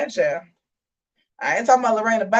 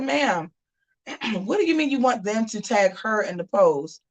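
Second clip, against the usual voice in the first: telling Danae off, pitched up; retold scolding; 3 semitones higher than usual. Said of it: "I said".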